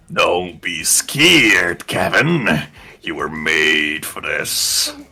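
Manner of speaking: eerie, spooky, drawn-out voice of the sea. In a game scene, the ocean addresses the player character, spooky ocean voice. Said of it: "the spooky ocean voice says not to be scared".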